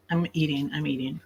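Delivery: talking with mouth full. Real, not acted. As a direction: say it round a mouthful of food. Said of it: "I can't talk with my mouth full".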